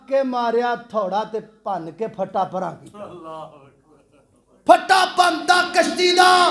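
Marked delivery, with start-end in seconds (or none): 4.7-6.5 high, ringing exclamation; dramatic shout. A narrator's reading. Preacher tells how the boat was broken, high shout. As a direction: cry out the shocking deed.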